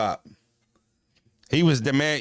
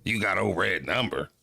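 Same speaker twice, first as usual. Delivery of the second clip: 1 incredulous; 4 semitones lower, 3 dB quieter than usual. Retold or imitated. Incredulous repeat of pops.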